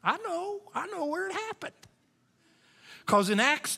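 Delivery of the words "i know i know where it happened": knowing congregant. Retold or imitated. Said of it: "and you're going".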